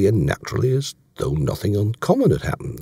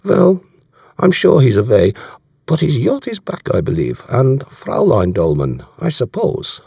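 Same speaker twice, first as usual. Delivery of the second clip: put-on higher, louder German-accented voice; German accent, pitched up and conversational; German commander, assured; 6 semitones higher, 5 dB louder than usual. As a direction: play a self-assured German officer. Voicing German commander in dialogue.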